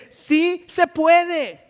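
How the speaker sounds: sí se puede drawn out very slowly, each word hit; slow emphatic. Acted. Pastor assures the congregation, very slow and emphatic. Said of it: "Déjeme decirle".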